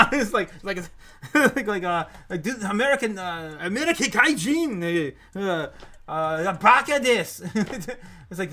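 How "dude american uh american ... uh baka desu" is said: slow, hammed-up Japanese insult; mock Japanese. Streamer voicing Japanese traders mocking Americans, slow hammed-up insult. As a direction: drag out a mock Japanese scolding. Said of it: "is what I'm saying in Japanese".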